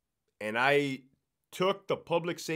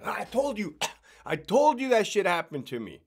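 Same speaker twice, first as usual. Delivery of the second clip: mock inmate voice; 7 semitones higher, 5 dB louder than usual. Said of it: "I bet you got somebody saying".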